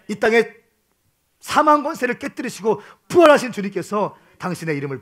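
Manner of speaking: preacher proclaiming victory over death, loud and high; rising proclamation. Real, not acted. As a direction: build to a triumphant peak. Climactic blessing.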